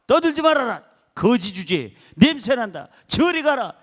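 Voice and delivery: a crowd hushing a beggar, sharp scolding. Retold or imitated. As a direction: bark the crowd's put-downs at the blind man. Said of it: "사람들이 막 꾸짖었다고".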